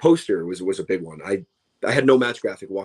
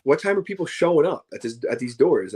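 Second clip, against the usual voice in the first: baffled; 5 semitones higher than usual. Pretend. Mocking his own confusion.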